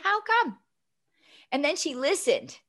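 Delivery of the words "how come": gentle question, much higher; kind mother asking. Retold or imitated. Mom gently asks the principal why, kindly. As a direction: ask it sweetly, no challenge. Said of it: "She said".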